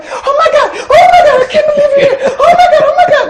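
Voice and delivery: very high, laughing fangirl squeal; mock-shriek like thrilled fans; squealing excited fans. Imitating girls on the phone thrilled to reach her, a high squeal. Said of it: "so excited and so happy".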